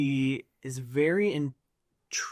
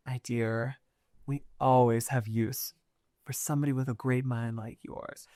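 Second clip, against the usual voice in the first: tender reassurance; 3 dB quieter than usual. Acted. Noble holding the tinkerer's hand, tender reassurance. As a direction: flatter them gently, voice dropped.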